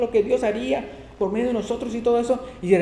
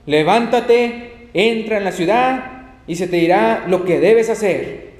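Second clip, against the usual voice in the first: commanding Lord; 6 dB louder, slower than usual. Acted.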